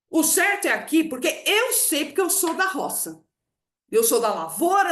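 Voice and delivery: imitating a father who will not budge; emphatic insistence. Dad insisting he knows farming, imitated with firm emphasis. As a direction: lay down the law, leaning hard on key words. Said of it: "ele enfatiza aquilo".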